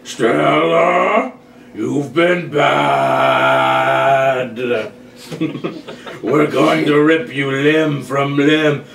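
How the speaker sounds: dinosaur voice. Acted. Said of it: "gravelly dinosaur voices".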